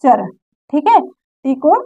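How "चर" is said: "चर" set apart, with a ch sound and short vowel; "ture" read as "char". Shown as a demonstration. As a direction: say "चर" as one short syllable. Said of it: "इसको क्या पढ़ेंगे".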